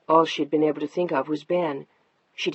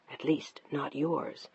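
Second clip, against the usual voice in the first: cold quiet jab; 2 semitones lower, 9 dB quieter, slower than usual. Acted. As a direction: drop the voice to wound. Wife's cutting quiet remark.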